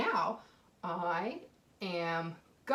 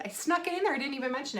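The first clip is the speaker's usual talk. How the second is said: bright, much higher playful confession; playful reveal; 5 semitones higher, faster than usual. Real, not acted. Teacher playfully confesses to kindergartners. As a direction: share the secret with glee. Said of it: "do you know what I did".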